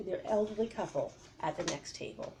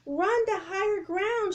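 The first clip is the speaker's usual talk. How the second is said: high, loud, slower command; shouting; 11 semitones higher, 4 dB louder than usual. Acted. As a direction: yell it over the waves. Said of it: "shouted Jack".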